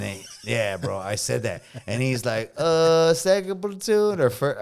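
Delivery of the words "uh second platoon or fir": loud sergeant voice. Retold or imitated.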